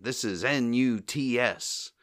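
slow, mock radio announcer; station identification. Curly butting in on the speech, mock station announcement. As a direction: spell it out like a station ID. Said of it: "butts in for a station identification".

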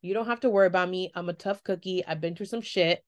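self-assured, steady delivery; confident. Retold or imitated. Candidate tells interviewer she's tough, confident. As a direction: say it like you've been through it. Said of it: "I said that with confidence".

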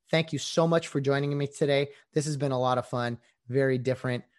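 winded, sore voice; out of breath from talking. Real, not acted. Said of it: "I'm out of breath. My voice hurts".

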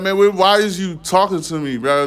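high-pitched mock indignation; imitating his defensive self, voice way up; high indignant mock rant. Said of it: "I like".

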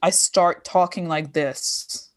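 slow Lebanese-accented English; slipping into a Lebanese accent. Shown as a demonstration. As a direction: let the Lebanese accent take over, unhurried. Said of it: "my accent just turns Lebanese".

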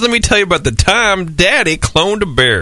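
high, hammed-up old grandpa voice; grandpa storyteller. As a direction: play a doting grandpa telling a tall tale. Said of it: "reaching for a bowl of Werther's Original".

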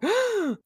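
high mock gasp; acted alarmed gasp. Narrator acting Luna seeing Kakeru in pain, alarmed gasp. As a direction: gasp as the startled cat.

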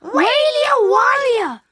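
put-on high, loud shouted baby wail; hungry wailing. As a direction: howl it out with hunger. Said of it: "still crying and crying with hunger".

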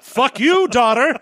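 loud, high villain sneer; villain snarl. Pretend. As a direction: spit it like a stage villain. Christopher Lee stabbing Regan.

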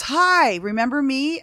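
high-pitched "hi" of someone greeting you, imitated; imitated perky greeting. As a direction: mimic an upbeat doctor saying hello. Retold doctor greeting her brightly.

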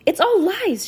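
high, loud insistence; emphatic declaration. A narrator's reading. Girl sticking up for her friend, loud declaration. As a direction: declare it for all to hear. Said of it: "she declared to anyone who would listen".

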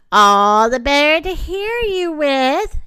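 loud, swelling wolf answer; big bad wolf. A narrator's reading. Wolf in bed answering the girl, loud and menacing. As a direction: answer loudly, drawing out the menace. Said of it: "answered the wolf".

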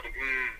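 low, soft "hmm" of someone sizing up; retold wordless hum; imitated pondering hum. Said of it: "and he's going".

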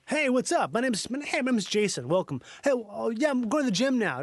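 lightly voiced American bro; a hint of a friendly gym-going dude. Imitating an Australian coworker's American accent, lightly voiced bro. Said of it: "that's how his voice sounded as an American".

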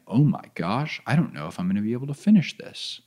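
hushed, fearful murmur to himself; whisper-soft worried self-talk; a quiet panicked aside to himself; scared inner thought. Retold or imitated. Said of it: "That is a scary thought".

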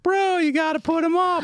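a hammed-up pleading club guy; imitating Dean begging for a spot; mock pushy bro. Retelling Dean pushing him.

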